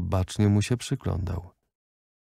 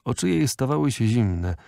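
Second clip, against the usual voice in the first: ordinary delivery, nothing marked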